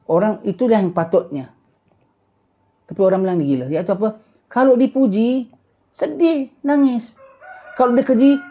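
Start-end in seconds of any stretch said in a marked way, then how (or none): 4.5-8.4 much higher, mock-tearful voice; mock weeping. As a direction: play at being tearful. Mimics weeping when praised. (pura-pura sedih menangis)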